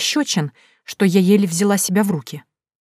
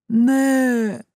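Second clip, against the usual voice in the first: higher drawn-out groan; ghostly moan; 6 semitones higher than usual. A narrator's reading. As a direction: moan again, closing in. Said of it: "замычала я". (мычание мертвеца)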